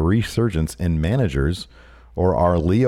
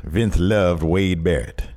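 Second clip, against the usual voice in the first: slow Dusty voice; 4 semitones lower, much slower than usual. Acted. Dusty bit.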